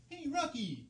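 hushed starter phrase; off-mic warm-up. Acted. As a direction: rehearse the squeaky call under your breath. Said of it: "I don't need the starter phrase".

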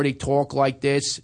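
slow Baltimore vowels; drawn-out Baltimore talk; Baltimore accent. Shown as a demonstration. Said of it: "In Baltimore".

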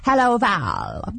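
slow, drawn-out snooty cat; little cat voice. Pretend. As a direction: talk like a bored house cat. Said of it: "do a little cat voice for me".

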